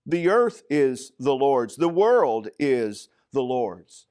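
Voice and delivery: EARTH and WORLD leaned on, deliberate pace; emphatic restatement. Real, not acted. Preacher stressing that both belong to God, emphatic restatement. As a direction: drive home "earth" and "world" with weight. Preacher drives home the repetition.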